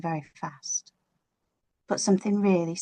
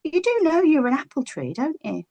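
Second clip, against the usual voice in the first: high, soothing lady voice; Mother Nature; 8 semitones higher than usual. Acted. Mother Nature soothing the little tree, high and gentle. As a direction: comfort a small child kindly. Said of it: "And she said".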